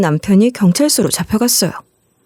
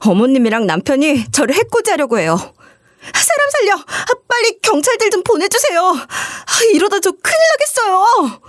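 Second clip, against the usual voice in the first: high, frantic cries to the emergency line; desperate screaming for help; 10 semitones higher than usual. Retold or imitated. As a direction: gasp and plead as if in danger. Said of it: "악을 질렀어요". (119에 다급하게 비명 지르며 살려달라고 외치기)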